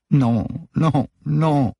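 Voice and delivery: high, loud repeated cries of refusal; distressed denial. A narrator's reading. Manon staring at her trembling hands, crying no in distress. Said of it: "répétait-elle".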